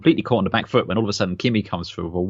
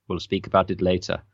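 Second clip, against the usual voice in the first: stony reply; 3 semitones lower, 4 dB quieter than usual. Retold or imitated. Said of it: "this stony reply from Vettel".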